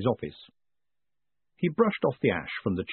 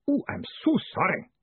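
high, sugary apology; syrupy; 10 semitones higher than usual. Acted. Newcomer interrupting Moist and the weeping clerk, syrupy apology. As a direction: pour syrup over the apology. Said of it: "The sentence ended in syrup".

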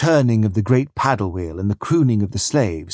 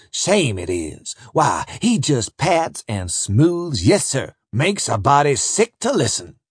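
scornful overseer; 2 semitones higher than usual. Acted. Overseer voiced, scornful gossip.

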